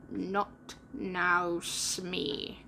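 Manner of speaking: low, dark warning; a hint of menace, low; dark captain's hush; darkly. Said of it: "Hook said darkly".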